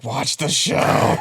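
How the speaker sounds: slow, hushed, almost whispered "watch the show"; deadpan retort. Retold or imitated. Answering a Yaddle fan's question, slow and hushed. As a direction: drop it to a slow near-whisper. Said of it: "and I'm just like".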